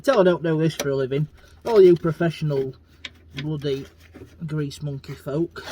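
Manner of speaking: annoyed DIYer ranting loudly at pro mechanics. Real, not acted. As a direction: vent loudly at the professionals.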